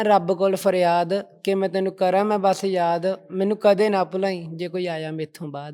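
firmly projected rhymed verse; shayari recitation. Shown as a demonstration. Guest reciting another of his love couplets to the host, declaimed shayari. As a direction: recite it as a lovelorn plea in verse. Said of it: "ਹੋਰ ਕਿਹੜੀਆਂ ਸ਼ਾਇਰੀਆਂ ਲਿਖੀਆਂ ਨੇ".

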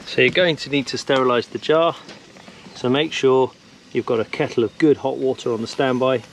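normal talking voice

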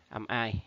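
"I" said as eye, as in like; sound "ai". Shown as a demonstration. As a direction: pronounce "I" as the diphthong eye. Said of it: "chọn câu A là like". (đọc "I" thành âm ai như trong like)

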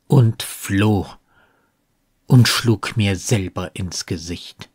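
measured, deliberate verse reading with long pauses; lightly dramatic poetry reading; poem recitation. Acted. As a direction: recite the poem line by line, unhurried. Recites the poem in German translation.

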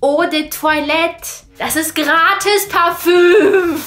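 high, loud, very slow proud pronouncement; child proudly lecturing her mom; proud know-it-all kid. Retold or imitated. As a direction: announce it like a kid sure she's clever.

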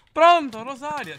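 high, loud southern Italian caller; mock southern Italian caller.

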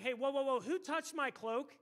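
acted interruption with a loud start; calling a halt. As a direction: stop everyone, then draw out the question. Acting Jesus halting the crowd.

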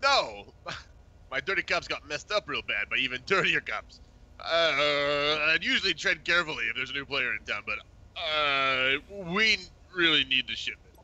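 Bozeman voice. Acted. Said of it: "the speaker is the voice of Bozeman".

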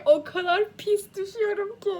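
overwhelmed, let the crush turn into crying; tearful gush. Real, not acted. Reader confessing her crush on Gölge, voice cracking with tears.

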